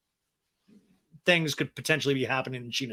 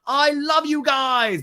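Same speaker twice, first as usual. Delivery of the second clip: much higher, slow, syrupy gush; gushing mock James; 10 semitones higher, 5 dB louder, much slower than usual. Podcaster mocking James gushing at the couple. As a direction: ham up a sappy declaration.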